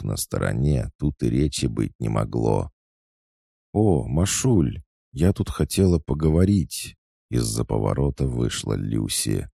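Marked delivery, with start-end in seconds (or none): 3.7-7.0 put-on higher, bright girlish call; chirpy greeting. A narrator's reading. Lyusya coming upon her friend Masha, chirpy. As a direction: pipe up eagerly to a friend. Friend cheerfully calls out to Maria.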